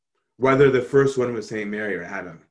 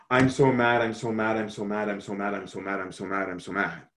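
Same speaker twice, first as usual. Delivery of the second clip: repetitive mad muttering, fading lower and softer; mock angry rant; 3 semitones lower, 3 dB quieter than usual. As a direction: imitate someone stewing, trailing down into a grumble. Mock quote of God raging.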